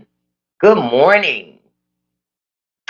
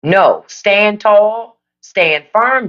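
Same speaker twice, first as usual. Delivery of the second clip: rallying call; 4 semitones higher, much slower than usual. Real, not acted. Urging Democrats on.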